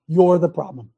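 you're the problem, said loud and hard; loud accusation. Real, not acted. Preacher to listeners, loud blunt accusation. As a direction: drive the point home loud. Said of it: "Did you hear me?".

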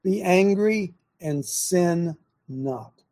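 angry and sin not drawn out very slowly, each word weighed; slow, deliberate. Shown as a demonstration. Preacher unpacking the verse for his audience, very slow. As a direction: lay the verse out slowly for the listeners to think over. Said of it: "What would that mean?".

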